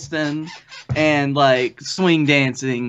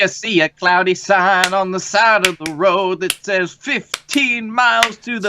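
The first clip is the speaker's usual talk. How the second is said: ad voice; 3 semitones higher than usual. Acted. Mock ad voice.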